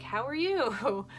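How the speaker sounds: slow, loud mock how are you; mock greeting. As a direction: drag the question out, mocking. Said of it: "And I was like".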